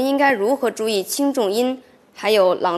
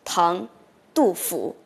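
slow, measured classical reading, slightly louder; full poem recitation; 3 dB louder, slower than usual. Shown as a demonstration. Student reciting the whole Du Fu poem for the professor, slow measured reading. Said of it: "你试一下".

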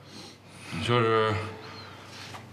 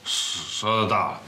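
slurred speech. Acted. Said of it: "舌头都大了".

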